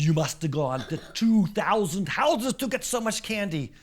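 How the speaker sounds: acted disbelief; amazed. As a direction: marvel out loud at the amount. Policeman amazed at candy.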